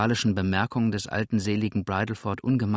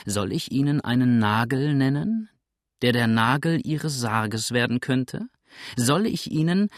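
mounting threat, climbing in pitch; escalating menace, broken off at the top; ever-rising voice; 3 semitones higher, 4 dB louder than usual. Acted. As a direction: build each question towards a peak. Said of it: "mit immer gesteigerterer Stimme".

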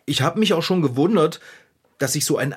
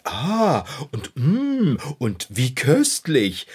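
mock delight; 2 semitones lower, much slower than usual. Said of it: "Alle haben gesagt".

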